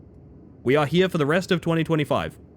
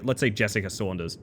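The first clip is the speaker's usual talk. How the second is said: ordinary delivery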